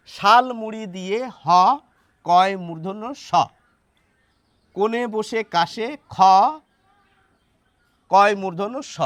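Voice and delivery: ক্ষ read as "কয় মূর্ধন্য স", letter by letter; rhyme read with letter names. Shown as a demonstration. Teacher tries a reading for viewers, naming ক্ষ as কয় মূর্ধন্য স. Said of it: "এক এক করে পড়ে দেখি".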